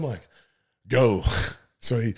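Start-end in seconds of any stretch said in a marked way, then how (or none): 0.9-1.2 loud, sharp command; urging the driver after the runner; urgent shout. Retold or imitated. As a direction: fire it off to send him. Urging pursuit.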